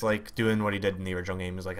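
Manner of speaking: ordinary talk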